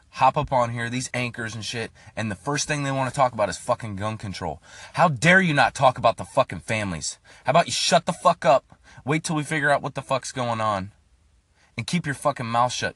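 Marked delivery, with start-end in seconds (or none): 5.1-12.9 angry outburst. Real, not acted. Telling off news anchors.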